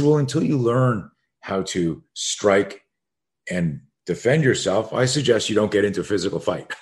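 measured, no-nonsense coaching advice; matter-of-fact. Retold or imitated. Coach advising his student against fighting, matter-of-fact. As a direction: lay it out plainly, without heat. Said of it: "very matter of fact".

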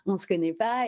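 recalling Dylan asking to sign, in amused disbelief; surprised. Retold or imitated. Amused surprise at a stranger's request. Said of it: "un peu genre, euh, surprise".

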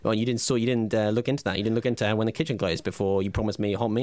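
rising, indignant complaint about the hot meal; hammed-up grievance to his co-host; mock outrage. Skit angry co-host.

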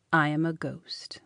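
low, whispery confession; hushed revelation. A narrator's reading. Young man revealing himself to Celia, hushed. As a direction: drop to a hush to reveal it. Solemn revelation of being a ghost.

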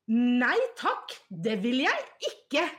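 mild mock shout; retold scream. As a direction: imitate a caps-lock shout, half-hearted. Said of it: "så hun skriker da".

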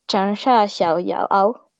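"Changsha Xiaoyao" sounded out slowly with attempted Mandarin tones; careful Chinese pronunciation. Shown as a demonstration. Podcaster giving the hometown nickname in Chinese, slow careful Mandarin pronunciation. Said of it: "pero en chino es".

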